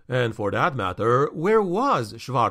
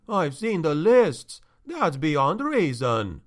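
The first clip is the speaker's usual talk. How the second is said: a worried, rising protest; anxious steward; 3 semitones higher than usual. Acted. Steward Tachfel protests, agitated.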